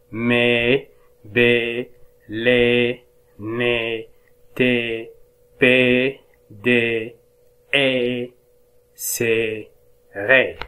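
"مي" "بي" "لي" said apart, fading toward the end; reread drill. Shown as a demonstration. Teacher rereading the syllables for the class. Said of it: "أعيد القراءة".

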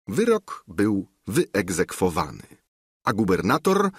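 ordinary delivery

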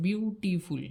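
বিউটিফুল in separate syllables, বিউ-টি-ফুল; teacher dividing বিউটিফুল into its three parts; broken into syllables. Shown as a demonstration. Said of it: "ভেঙে ভেঙে উচ্চারণ করতে হচ্ছে".

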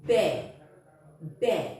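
ব্যয় said as "bæ", with the jofola making an open e sound; careful ব্যয় with an open "bæ"; clear pronunciation demo. Shown as a demonstration. Teacher showing pupils how initial jofola sounds. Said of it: "এর উচ্চারণটা".

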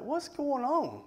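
slow, high mock questioning. Boyfriend questioning his quiet girlfriend, slow mock puzzlement. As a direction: draw the question out high, as if retelling.

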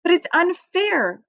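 put-on high, drawn-out childish complaint; high-pitched, stretched-out objection; cried protest. A narrator's reading. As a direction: wail it as an upset little girl. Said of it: "cried Fern".

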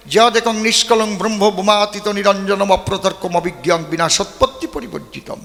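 intoned Sanskrit verse, steady and solemn; chanted Sanskrit scripture; scripture recitation. Acted.

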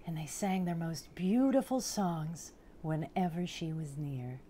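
picture-book storytelling, unhurried pauses; storybook narration. A narrator's reading. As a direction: read it to small children, savouring the big words. Reads picture book aloud.

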